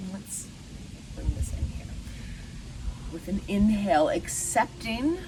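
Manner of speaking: unhurried meditation guide, long pauses; lightly meditative, leaving room to breathe; guided meditation. Acted. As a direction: guide listeners gently through the breath, pausing between phrases.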